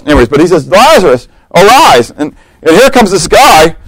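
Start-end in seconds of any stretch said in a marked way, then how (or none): 0.7-2.1 a preacher calls a dead man out, booming; commanding call. Pretend. Preacher acting out Jesus at the tomb, commanding call. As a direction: proclaim it like the tomb scene. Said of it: "I like this part, so I'm gonna do it".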